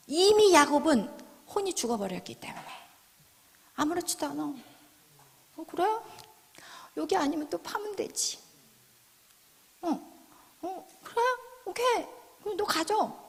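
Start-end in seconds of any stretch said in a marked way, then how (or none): 4.4-13.2 softly shrugging it off; unbothered concession. Acted. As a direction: let it go without a fight. Voices unbothered Isaac giving up well. (아무렇지 않은 듯 가볍게 양보하며)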